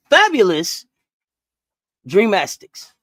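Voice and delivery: slow, grand introduction of the fabulous Dreamastics; grand announcement. Shown as a demonstration. To a co-host, unveiling her joke team name with a flourish. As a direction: present the team like a showman. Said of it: "you gotta say it like that".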